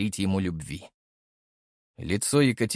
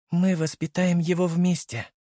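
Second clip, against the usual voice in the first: tender; 6 semitones higher than usual. A narrator's reading. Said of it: "нежно сказала".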